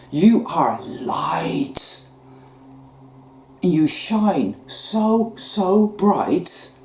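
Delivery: slow voiceless whisper; whispered affirmation. Real, not acted. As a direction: breathe it to them gently and slowly. Soothing affirmation.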